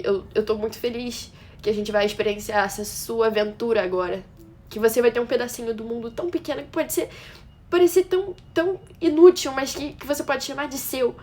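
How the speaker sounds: voicing the proud reply she hoped for, pitch lifting; orgulho imaginado. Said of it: "um olhar orgulhoso, uma frase de". (orgulhoso e feliz, numa fala imaginada)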